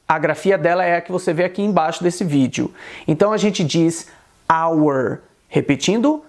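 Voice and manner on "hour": "hour" said with no H, like "our"; silent H. Shown as a demonstration. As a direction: drop the H completely in "hour". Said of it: "ele tem esse som mudo".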